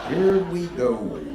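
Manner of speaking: slow drawn-out here we go with a laugh; hammed-up dread. Shown as a demonstration. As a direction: stretch it out like doom is coming. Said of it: "repeated dread".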